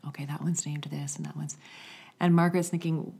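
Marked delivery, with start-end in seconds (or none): 0.1-1.6 soft whisper naming the sheep. Retold or imitated. Shepherdess whispering names to her flock. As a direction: whisper so the sheep won't hear. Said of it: "the shepherd starts whispering about".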